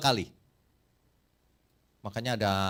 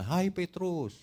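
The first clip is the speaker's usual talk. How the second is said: rooster speaking; 5 semitones higher, much slower than usual. Acted. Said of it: "Itu terjemahnya".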